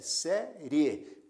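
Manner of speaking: "série" in two beats, sé, rie, final E clearly sounded; final E standing out. Shown as a demonstration. Teacher showing which vowel stands out, "série" split with clear final E. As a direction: split "série" and bring out its last E. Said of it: "observe que a letra E se destaca".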